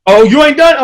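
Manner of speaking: mock surprise. Real, not acted.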